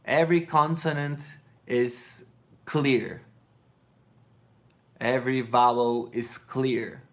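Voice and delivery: every consonant and vowel pronounced distinctly; deliberate, clearly separated words; clear enunciation. Shown as a demonstration. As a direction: articulate carefully, with pauses between phrases. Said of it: "speak in a clear way".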